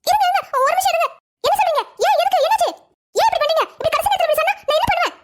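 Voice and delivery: high-pitched, flustered protest; agitated outcry. Acted. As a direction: react as if it were a disaster. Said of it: "இவ்வளவு கத்து கத்துன".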